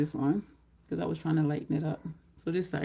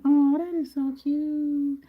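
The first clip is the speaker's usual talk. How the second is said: cooing; 7 semitones higher, 6 dB louder, much slower than usual. Real, not acted. Cooing to viewers about the little one, slow and high. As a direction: melt over something adorable.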